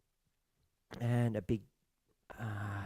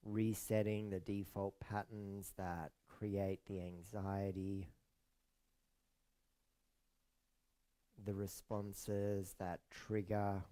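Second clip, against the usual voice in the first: soft, unhurried meditation voice with long pauses; hushed, soothing yoga nidra guidance; guided meditation; 3 semitones lower, 8 dB quieter than usual. Acted. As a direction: ease listeners into rest, softly and calmly.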